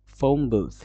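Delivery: "ফোন বুথ" run together as fome-booth; linked "ফোন বুথ" with an m; assimilated form. Shown as a demonstration. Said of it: "এটা হয়ে যাবে কি".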